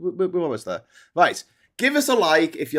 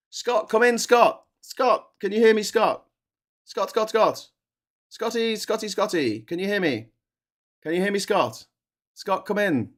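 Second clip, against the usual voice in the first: calling out to a frozen caller, a bit higher; 4 semitones higher than usual. Real, not acted. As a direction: hail someone on a dropped connection.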